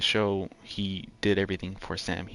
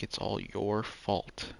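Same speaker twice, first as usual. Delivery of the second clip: slow heavy line; 3 dB quieter, slower than usual. Retold or imitated. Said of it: "so much worse for him".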